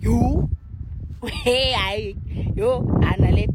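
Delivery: loud, overwhelmed yelling to the room; excited shout. Real, not acted. Stunned listener shouting to viewers about the song, loud excited yell. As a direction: shout out the amazement, laughing between.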